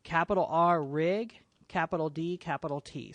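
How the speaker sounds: spelling it out piece by piece; dictating. Shown as a demonstration. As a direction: read each letter out distinctly. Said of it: "I'm gonna rename this to stereo".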